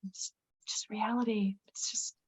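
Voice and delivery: partly whispered gentle consoling; retold hushed comfort. Doctor patting her hand, consoling.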